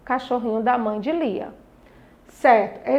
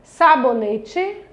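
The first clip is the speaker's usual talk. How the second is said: Sabonete stretched out slowly, each syllable separate; much slower than usual. Shown as a demonstration. Teacher modelling syllables for pupils, slowly drawn out. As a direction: sound out Sabonete slowly for the class. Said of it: "a sílaba tônica sendo paroxítona".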